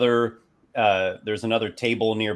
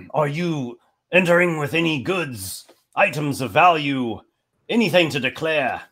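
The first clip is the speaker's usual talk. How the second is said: higher-pitched official guard voice; elven guard; 5 semitones higher than usual. Acted. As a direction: question the traveller like a formal gate guard. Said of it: "it's an elven guard".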